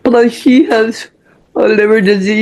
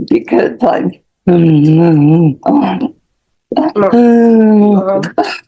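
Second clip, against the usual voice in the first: real tears stopping the words mid-sentence; breaking down; much slower than usual. Real, not acted. Mother pleading with the judge for her daughter, choking up. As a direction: voice cracks into choked sobs. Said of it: "Need a minute?".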